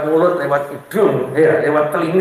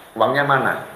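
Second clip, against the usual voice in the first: nagging wife; 7 semitones lower, 4 dB quieter than usual. Retold or imitated. Wife demanding money in story.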